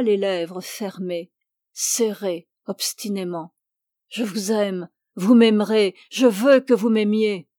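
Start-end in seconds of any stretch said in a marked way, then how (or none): 4.1-7.5 déclaration insistante. Acted. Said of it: "Il répétait".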